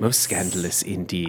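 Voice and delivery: breathless whispered aside; gossipy whisper. Pretend. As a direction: whisper it, scandalised. Whispered posh reply.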